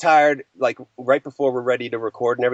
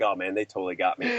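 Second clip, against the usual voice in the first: mock busted mumble; 7 semitones lower, 8 dB quieter than usual. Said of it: "I'm like".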